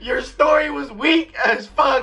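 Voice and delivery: slow, drawn-out teasing through laughter; laughing mockery. Real, not acted. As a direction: stretch it out, laughing at his joke. Mocking friend's weak joke.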